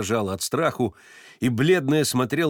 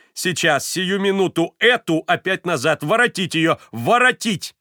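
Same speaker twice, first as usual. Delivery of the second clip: high, loud urgent command; urgent order; 7 semitones higher, 5 dB louder than usual. A narrator's reading. Varvara orders the woman brought back, urgent. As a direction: order them to fetch her back.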